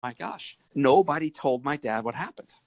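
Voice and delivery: put-on a scared kid hoping he's off the hook; little boy's worried thoughts. Nine-year-old thinking about his father, high and boyish. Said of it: "as a little boy thinking".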